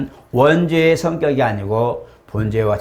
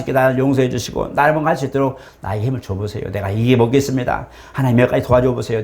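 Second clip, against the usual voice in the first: conversational prayer demo. Shown as a demonstration. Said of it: "하고 대화할 수 있잖아요".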